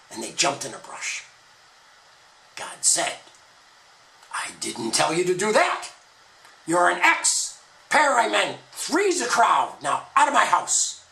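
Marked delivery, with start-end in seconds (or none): 4.3-11.0 louder, stern divine scolding; God banishing the couple, angry. Acted. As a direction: throw them out with rising anger. God expels them from garden.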